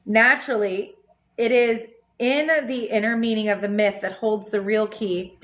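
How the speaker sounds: measured reading of a spiritual text; calm book reading; reading a text aloud. Acted. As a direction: read it out steadily like a passage. Reads book passage aloud.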